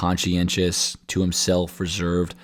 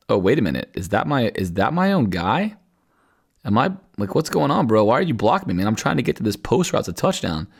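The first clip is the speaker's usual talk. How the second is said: mock bewilderment; 2 semitones higher than usual. Receiver complaining to the teammate blocking him, acted bewilderment. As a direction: voice rising into baffled protest.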